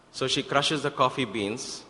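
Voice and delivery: "crushes" drawn out with emphasis; stress on "crushes". Shown as a demonstration. Telling the story of the coffee beans, stress on "crushes". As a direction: lean slowly on "crushes". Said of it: "emphasis on first crushes".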